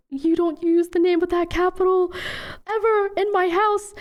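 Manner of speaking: imitating a strict father laying down the law; mock angry father. Daughter recalling her dad forbidding the capital's name, as a mild stern scold.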